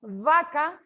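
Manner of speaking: vaca starting with teeth on lip; labiodental V. Shown as a demonstration. Teacher giving an example of labiodental B, pronunciation demo. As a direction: buzz the first sound of vaca like an English V. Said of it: "es con B labiodental".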